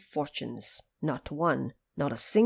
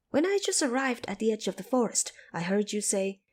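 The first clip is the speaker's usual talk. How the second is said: high, fast and insistent; eager Monkey King; 4 semitones higher, faster than usual. Acted. Monkey King challenging the woodcutter, high and quick. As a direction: press the woodcutter like a cheeky monkey.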